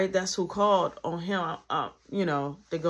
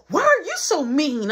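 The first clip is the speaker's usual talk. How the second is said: put-on whiny kid; 10 semitones higher, 7 dB louder than usual. Little brother whining.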